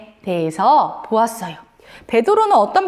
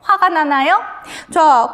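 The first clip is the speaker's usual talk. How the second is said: ordinary delivery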